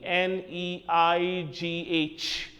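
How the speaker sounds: spelt slowly letter by letter; slow spelling. Shown as a demonstration. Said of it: "Horses neigh".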